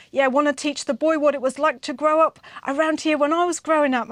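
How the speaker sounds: lightly voiced Māori grandfather's accent. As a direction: imitate an older Māori man's accent. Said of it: "I'm getting really good at this accent now".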